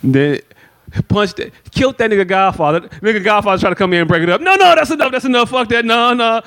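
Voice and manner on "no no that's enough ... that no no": high, pleading stop; mock frantic old man. Godfather breaking up son's fight, high frantic pleading. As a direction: jump in to break it up.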